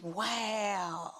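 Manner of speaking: low, breathy whispered wow; stunned whisper. Retold or imitated. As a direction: gasp it under your breath. Shocked at footage.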